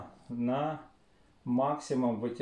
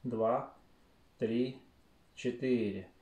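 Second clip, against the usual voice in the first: slow breath counting; slower than usual. Shown as a demonstration. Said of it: "Давайте вместе".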